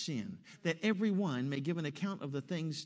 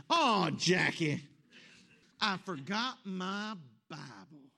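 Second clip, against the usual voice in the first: imitated cry of dismay; 2 semitones higher, slower than usual. Husband confessing to his wife once more, mock dismay. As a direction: cry out, then draw out the confession. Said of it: "Gary cried out again".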